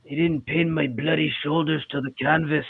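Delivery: mock a British wrestler whining, in his accent; British accent impression. Co-host finishes the wrestler's complaint in a mock British accent. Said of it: "I can't do a Scottish accent".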